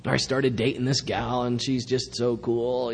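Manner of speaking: easygoing surfer-dude take on a Greek; breezy California voice; lightly hammed SoCal dude; mock Southern Californian. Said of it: "I think of the Greeks as Southern Californians".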